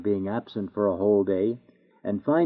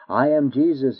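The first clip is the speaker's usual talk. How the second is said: a stern, raised cry of judgment; terrible judge's cry; 3 semitones higher than usual. Acted. Jesus the judge cries out to sinners, stern. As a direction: call it out to the sinners before him. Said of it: "he will cry out".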